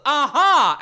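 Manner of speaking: hammed-up eureka yell; mock triumphant aha. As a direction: shout it like the penny just dropped. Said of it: "And then he goes".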